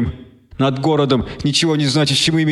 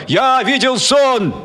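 crowd roaring; 11 semitones higher, much slower than usual. Acted. Crowd roaring the slogan back at the speaker. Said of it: "орала и ревела".

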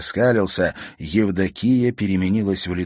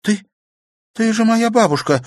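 put-on very high, louder stunned girl; disbelieving cry; 6 dB louder than usual. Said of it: "всё ещё ничему не веря".

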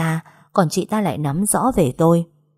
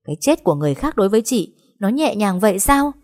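fast, indignant accusation; mild outraged cry; 3 semitones higher than usual. Acted. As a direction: hurl the question at her. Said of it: "gào lên". (tôi căm phẫn hỏi, hơi gào)

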